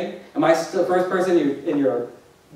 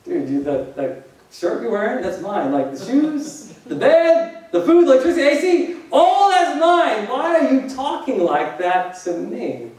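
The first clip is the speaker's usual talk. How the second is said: exasperated dad; 4 semitones higher than usual. Retold or imitated. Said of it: "And Dad's like".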